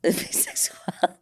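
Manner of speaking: playful whispered echo; hushed, breath-only repeat. Acted. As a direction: whisper it back, sultry. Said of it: "Do you have to whisper it too?".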